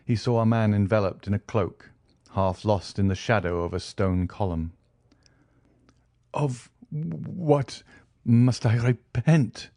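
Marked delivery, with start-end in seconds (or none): 6.3-9.7 whispered start, then a slow frightened question; stammering fear. Acted. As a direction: falter out the words in terror. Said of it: "stammered Danglars".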